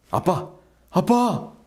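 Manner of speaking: reenacted child's cry for father, jumping high; calling out loudly. Frightened child calls to motionless father in the bath, calling out. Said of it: "소리를 쳤습니다".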